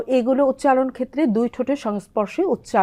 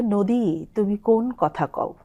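poem recitation; 4 dB quieter, slower than usual. Shown as a demonstration. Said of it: "একটা কবিতার line আছে".

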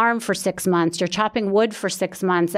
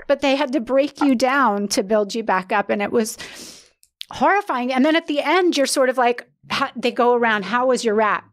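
higher, tearful voice pushing through; still crying; 4 semitones higher than usual. Real, not acted. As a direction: keep talking while still in tears. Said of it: "I'm so sorry that I'm crying".

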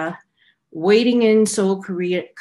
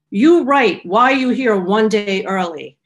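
stern order; 4 dB louder than usual. Retold or imitated. Customs officer orders the traveller to write, stern and loud. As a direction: snap it out like an official with no patience.

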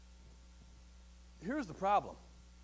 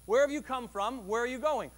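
louder, pressing on "have" and "going"; emphatic question; 6 dB louder than usual. Shown as a demonstration. Preacher voicing God seeking out Hagar, loud and emphatic. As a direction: put weight on "have" and "going". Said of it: "and asks that question".

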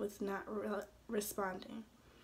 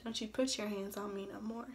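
mild shout. Acted. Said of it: "and shouted".

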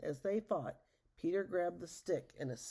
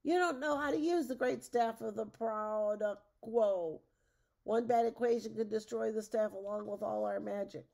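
loud, raised-pitch warning; bellowed scolding; 4 semitones higher, 6 dB louder than usual. A narrator's reading. Rumpelstiltskin warns Matilda about the staff, loud scolding. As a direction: scold loudly, easing only a little. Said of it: "Rumpelstiltskin bellowed".

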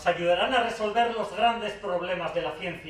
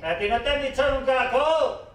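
audience member thinking; 8 semitones higher than usual. Acted. Speaker voices a sceptical spectator's thought, high-pitched mocking jibe. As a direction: pitch it up like an imagined heckler. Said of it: "Veo a alguien pensando".

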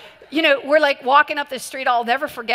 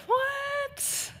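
sudden much higher startled yelp; shocked what; 7 dB quieter than usual. Retold or imitated. Hearing her friend wants to go alone, a shocked high yelp. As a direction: blurt it out in disbelief. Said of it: "I said".

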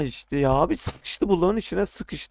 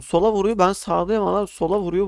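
higher, louder indignant complaint; loud protest; 5 semitones higher, 5 dB louder than usual. Real, not acted. Player protesting to viewers about the opponent's hits, loud and indignant. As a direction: insist loudly it is unfair.

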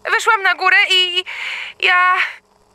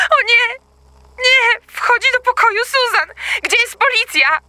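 panicked; 4 semitones higher than usual. Acted. Intruder entering daughter's room.

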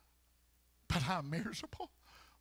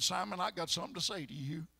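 Jesus speaking; 4 semitones lower, 4 dB quieter, faster than usual. Retold or imitated. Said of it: "but Jesus said".

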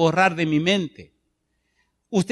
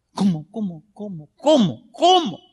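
rising rhetorical question; 3 semitones higher than usual. Acted. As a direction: climb with each cómo. Preacher's rising rhetorical repetition.

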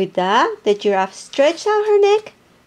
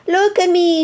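higher, louder sweet birdlike call; sweet nightingale voice; 7 semitones higher, 3 dB louder than usual. Acted. Hippo showing off her new voice to everyone. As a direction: call out proud and sing-song. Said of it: "she called out in her sweet nightingale voice".

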